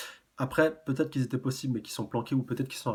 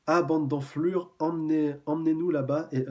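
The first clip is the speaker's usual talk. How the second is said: lancer l'insulte plus haut et plus fort, en détachant; insulte hargneuse; 4 semitones higher, 5 dB louder than usual. Acted. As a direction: jouer le méchant qui aboie ses ordres. Reads a villain's insult. (voix de brute qui commande, plus forte et lente)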